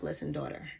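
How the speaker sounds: lightly voiced calm guide; a gentle hint of the divine soothing. Divine spirit calming the excited reader, lightly gentle. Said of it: "the divine is letting me know".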